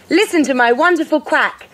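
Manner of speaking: high, excited announcement; a delighted, mildly whooped boast; whooping. A narrator's reading. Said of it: "whooped Quentin".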